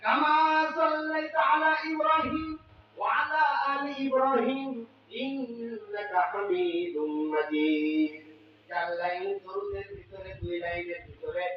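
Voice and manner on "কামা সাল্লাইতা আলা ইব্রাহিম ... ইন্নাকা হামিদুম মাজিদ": Arabic salawat chant; durood recitation. Acted. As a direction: lift it then sink into the close.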